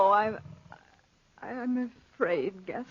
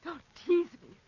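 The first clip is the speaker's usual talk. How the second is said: fearful plea; 5 semitones higher than usual. Acted. Begging him in fear.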